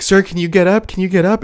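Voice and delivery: high, urgent questioning; concerned helpers. Retold or imitated. Helpers trying to get the donor up, high-pitched urging. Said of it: "then they're like".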